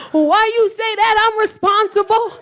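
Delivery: slow, high, offended whine; high indignant protest. Retold or imitated. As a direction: act wounded and offended.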